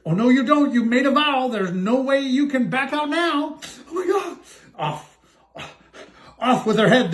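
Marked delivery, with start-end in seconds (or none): 0.0-3.6 shrill insistence. Acted. Sister insists on marriage. 6.4-7.1 mock roar. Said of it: "the prince roared back".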